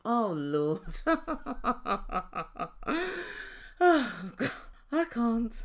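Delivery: laughing at his excuse. Real, not acted. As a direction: laugh in exasperated disbelief. Laughing at Gino.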